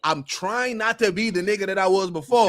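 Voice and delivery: loud gruff Kratos impression, bursting out. Podcaster mimicking Kratos, loud and gruff. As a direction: play Kratos grumbling about his past. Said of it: "Kratos is like".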